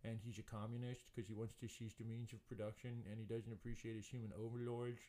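lightly voiced communist dog; a hint of a put-on talking-dog voice; Asher. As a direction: give the dog a subtly slurred voice. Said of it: "Asher's voice is like this".

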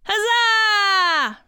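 drawn-out huzzah; crew cheer. Acted. Crew member cheering a success, hearty. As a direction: hold the last vowel in celebration. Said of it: "This is the crew cheers".

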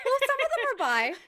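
said through laughter; laughing. Real, not acted. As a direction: correct her while laughing. Laughing while correcting.

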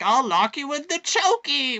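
high, loud villain threat; gleeful evil villain yelling; maniacal villain. Retold or imitated. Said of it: "she would be, like, cackling maniacally".

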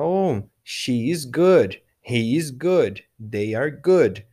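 slow, deliberate drill delivery; teacher modelling slowly; slow model answers. Shown as a demonstration. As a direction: say each one slowly for the class. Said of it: "model answers".

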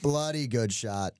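hammed-up British golf banter; bad British-Australian accent. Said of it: "That was kind of Australian too".

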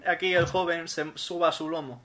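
loud, slow, overly polite; mock formal. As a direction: address the cow with mock courtesy. Player addresses cow politely.

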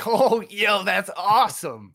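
laughing delight. Real, not acted. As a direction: laugh through the words. Laughing reaction to question.

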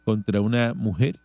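measured radio news reading. Real, not acted. Host reading charges to the audience, news read. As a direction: read out the police report evenly.

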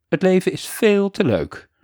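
calling out. Acted. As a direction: shout it up to him, urgent. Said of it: "had vader Fred geroepen".

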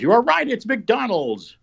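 host to quiz contestant, drawn-out, high announcer delivery; slow, high-pitched confirmation of a right answer; game-show announcement. Pretend. Host confirming the contestant's guess, mock game-show announcer.

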